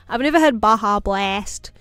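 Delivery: loud put-on American accent; hammed-up American accent; practised American accent. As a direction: try on an American accent with gusto. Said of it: "still practicing my American accent".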